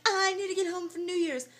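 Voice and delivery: high, loud wailing parody; hammed-up homesick cry; mock desperate plea. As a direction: wail it like a stranded movie hero. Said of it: "And I'm like".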